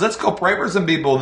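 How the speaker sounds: plain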